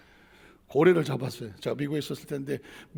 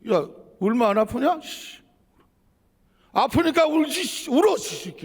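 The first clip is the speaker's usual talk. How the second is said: angry retort; 5 semitones higher than usual. Retold or imitated. Father retorts to the doctor.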